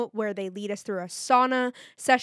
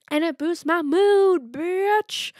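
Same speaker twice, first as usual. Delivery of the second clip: louder, higher, slowed burst of hype; hyped up exclaim; 7 semitones higher, 5 dB louder, much slower than usual. Real, not acted. Podcaster hyping her own workout win, excited shout. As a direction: punch it out like a triumphant cheer.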